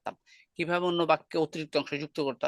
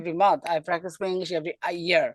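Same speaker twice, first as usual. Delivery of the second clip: slow demo; slower than usual. Shown as a demonstration. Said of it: "এখান থেকে দেখাই".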